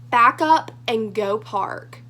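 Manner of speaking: slow, curt order dripping with attitude; mock bossy cop ordering them off; so much attitude. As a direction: bark it like a fed-up cop. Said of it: "like, so much attitude".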